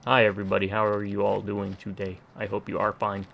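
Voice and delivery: stiff, even, robotic greeting. Shown as a demonstration. Vlogger demos the stiff robotic voice he was told he has. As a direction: say it flat like a robot. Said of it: "It's almost like a robot".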